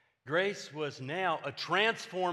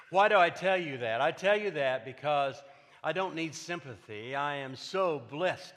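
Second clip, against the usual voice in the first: preaching emphasis; 6 dB louder than usual. Real, not acted. Preacher rising to his point.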